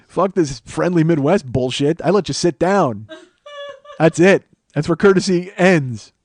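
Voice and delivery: loud, slow hammed-up scolding; mock outrage. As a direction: lay down the law in mock anger. Continues acted threat to the man.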